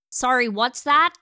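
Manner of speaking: high, loud, rising call; loud puzzled holler; shouted query. Acted. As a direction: shout that you can't hear from across the lawn. He still can't hear her.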